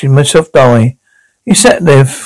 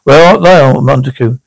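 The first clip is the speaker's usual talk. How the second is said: mock calling out. Shown as a demonstration. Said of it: "she would say".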